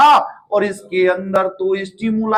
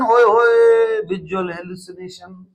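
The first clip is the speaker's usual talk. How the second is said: playful exclamation; slower than usual. Acted.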